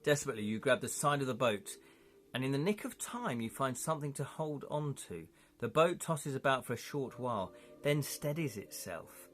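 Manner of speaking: dramatic gamebook narration; story narration. A narrator's reading. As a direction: read out a tense adventure story. Reads the gamebook aloud.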